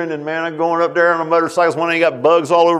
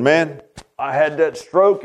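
slow, lightly slurred imitation; slurred stroke speech; slower than usual. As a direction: drag the words like a stroke survivor. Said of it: "his speech is really slurred".

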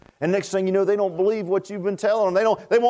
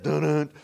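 mock organ sting; 4 semitones lower than usual. Shown as a demonstration. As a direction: hum an organ "dun-dun" playfully. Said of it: "on the organ right there".

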